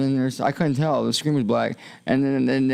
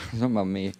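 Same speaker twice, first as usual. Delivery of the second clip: laughing; 3 semitones lower, much faster than usual. Real, not acted.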